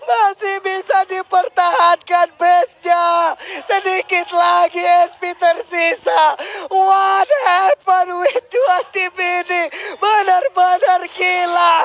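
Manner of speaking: crying out in disbelief; excited shouting. Real, not acted. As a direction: yell it like the game is slipping away. Caster yelling at the final push. (teriakan kaget penuh semangat)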